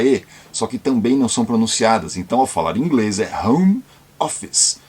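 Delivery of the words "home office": home office said without final vowels, hom ofis; English home office. Shown as a demonstration. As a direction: drop the e sounds in home office. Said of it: "a pronúncia correta também de home office".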